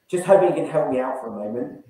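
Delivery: "moment" dropped down at the end of the sentence; falling end. Shown as a demonstration. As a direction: let "for a moment" fall away as a calm statement. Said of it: "We go down at the end of the sentence there".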